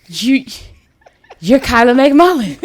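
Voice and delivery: halting, stunned recognition with long pauses; starstruck disbelief. Retold or imitated. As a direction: imitate being too starstruck to get it out. First starstruck take of retold meeting.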